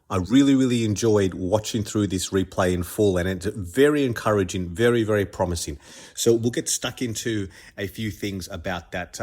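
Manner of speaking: stuffy nose from a cold; blocked nose. Real, not acted. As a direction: talk through a blocked nose. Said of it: "if I'm a bit stuffed up".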